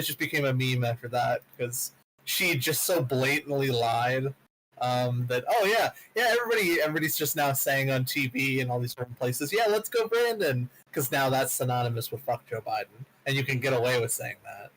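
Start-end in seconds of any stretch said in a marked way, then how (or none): none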